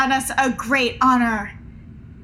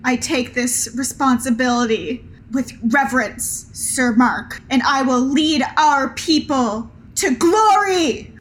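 solemn to triumphant. Acted. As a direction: vow it, swelling to glory. Penrod accepts the scepter.

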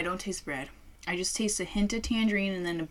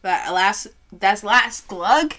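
gasping after a big chug; winded, eyes watering from chugging; breathless after chugging; 5 dB louder than usual. Real, not acted. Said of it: "My eyes are watering".

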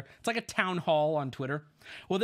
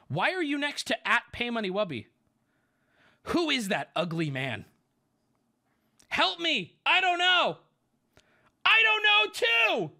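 put-on teen girl voice; 8 semitones higher, 4 dB louder than usual. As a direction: ham up a young teenage girl. Reading teen girls' messages aloud.

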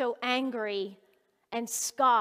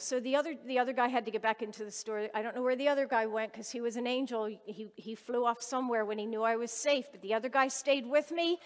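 ordinary delivery

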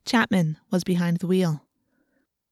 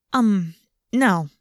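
lying. A narrator's reading. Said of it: "I lied".

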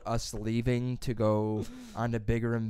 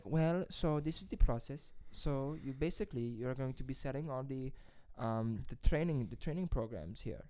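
hesitant Hispanic-accented interviewer, hushed and imitated; mock Hispanic accent; 9 dB quieter than usual. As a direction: explain haltingly in a put-on Hispanic accent. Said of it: "accent this is, but she sounded like that".

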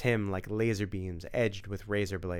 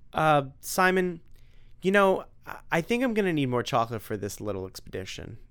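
nervous backpedal; 2 semitones higher than usual. Acted. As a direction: babble to get out of it. Tim scared, backing out.

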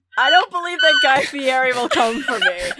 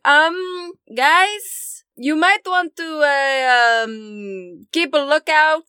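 higher, hesitant warning voice; Rictavia; 3 semitones higher, much slower than usual. Acted. Calling to the party from out front, hesitant warning. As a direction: draw out a cautious heads-up. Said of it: "Rictavia's voice going".

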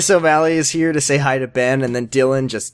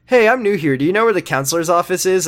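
put-on chirpy new girl; 4 semitones higher, faster than usual. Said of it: "she's just like".

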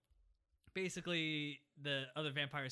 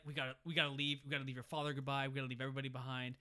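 mock panicky vampires; 2 semitones lower, faster than usual. Mocking the Cullens' panic.

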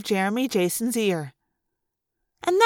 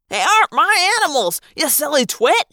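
higher, quick angry retort; indignant yell; 4 semitones higher, 3 dB louder than usual. A narrator's reading. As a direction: yell it at someone foolish, fast and high. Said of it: "he yelled at Cindy Sue".

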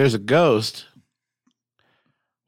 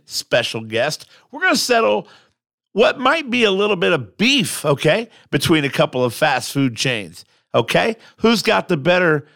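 upbeat announcer patter with punched openings; podcast host intro. Acted. Host welcoming listeners and plugging the sponsor, show-opening announcer voice. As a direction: open the show like a radio host.

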